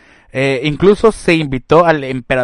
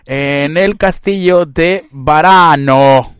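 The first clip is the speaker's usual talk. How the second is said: light Italian accent, slow; 7 dB louder, much slower than usual. Shown as a demonstration. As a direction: say it the Italian way, slowly. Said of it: "le estoy dando un acento italiano".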